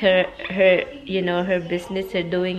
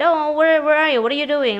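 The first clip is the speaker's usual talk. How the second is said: quoting Tommy, high; 8 semitones higher, 3 dB louder than usual. Retold or imitated. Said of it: "So Tommy said".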